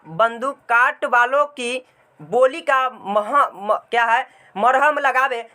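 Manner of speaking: slow, deliberate reading aloud of the lesson text; a teacher reading the story aloud, slow and measured; textbook reading. Acted. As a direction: read the passage to the class, slowly and clearly. Teacher reads the textbook passage.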